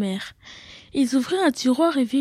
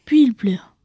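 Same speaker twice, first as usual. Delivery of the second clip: whispered narration; 6 dB louder than usual. A narrator's reading.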